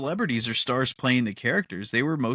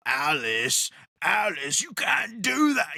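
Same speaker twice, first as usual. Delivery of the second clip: Idris Elba impression; 2 semitones higher, slower than usual. S0 imitating Luther scolding Alice, a mock shout at the end. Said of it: "the way he talks".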